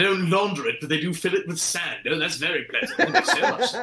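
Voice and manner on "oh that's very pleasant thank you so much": dry sarcastic thanks. Acted. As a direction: thank them with fake politeness.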